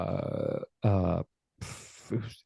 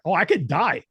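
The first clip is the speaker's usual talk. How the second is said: dawning realization; 6 semitones higher than usual. Retold or imitated. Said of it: "a light dawns on me".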